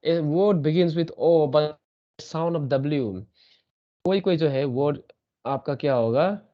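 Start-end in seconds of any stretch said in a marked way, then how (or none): 0.1-3.2 "A word begins with O, but sound of W" read very slowly; slow rule reading. Shown as a demonstration. Teacher reading the second rule slowly from the board. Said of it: "second क्या है आपका?".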